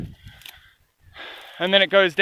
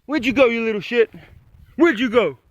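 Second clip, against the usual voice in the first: calling the dog; 5 semitones higher than usual. Retold or imitated. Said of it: "I yell at him".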